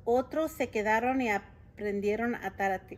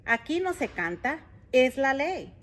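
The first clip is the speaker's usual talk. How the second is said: mild complaint; 5 semitones higher, 4 dB louder than usual. Acted. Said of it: "se quejó don Pepe".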